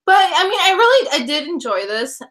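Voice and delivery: words through a half-chewed mouthful; chewing while talking. Real, not acted. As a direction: keep chewing while you talk. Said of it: "I have one right now in my mouth".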